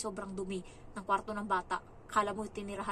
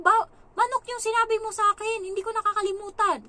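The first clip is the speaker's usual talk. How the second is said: much higher, much louder defiant answer; heated comeback; 10 semitones higher, 10 dB louder than usual. Retold or imitated. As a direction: fight back, sure you're right. Helper arguing back with employer.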